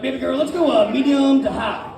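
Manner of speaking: lightly put-on spa voice. Client answering the massage lady, in his spa voice. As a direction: slip into a smooth-talking spa voice. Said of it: "That's my spa voice".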